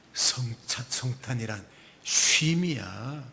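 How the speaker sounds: God speaking rest to an anxious believer, lightly voiced. Pastor voices God comforting.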